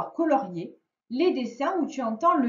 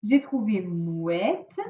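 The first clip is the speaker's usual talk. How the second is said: slow teacher model; much slower than usual. Shown as a demonstration. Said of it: "teacher stretching key word".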